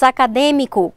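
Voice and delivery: acadêmico with a closed ê, as in Brazil; closed vowel. Shown as a demonstration. Teacher showing Brazilian usage, acadêmico with closed ê. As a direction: keep the stressed ê of acadêmico closed. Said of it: "com circunflexo fechado".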